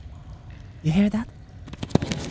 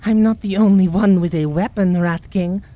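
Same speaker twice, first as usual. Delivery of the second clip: defiant; 5 dB louder than usual. Acted. Defiant retort in fight.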